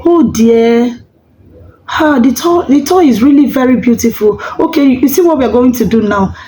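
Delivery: put-on reassuring mom talking a child out of a toy; gentle parent reply. Shown as a demonstration. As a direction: coax the child kindly. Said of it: "Just say".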